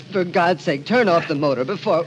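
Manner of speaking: loud, urgent begging; frantic shout over the running motor; desperate plea. Acted. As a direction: cry out to stop him before it's too late. Begging him to turn off motor.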